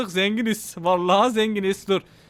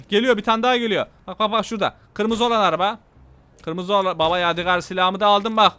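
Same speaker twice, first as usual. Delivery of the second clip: normal talking voice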